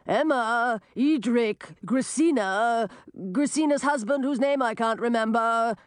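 calling out. Acted. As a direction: call into the cave. Calling out names.

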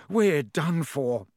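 slow, despairing moan. Acted. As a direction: drag it out in despair. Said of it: "he moaned".

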